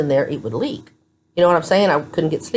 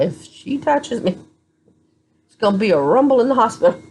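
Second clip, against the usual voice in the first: threatening inner voice; 6 semitones higher than usual. Retold or imitated. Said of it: "I thought".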